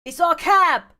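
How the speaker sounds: high, loud joyful shout; delighted passenger hollering; yelp of joy. Acted. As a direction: yelp it out happily to the group. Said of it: "A yelp of joy comes".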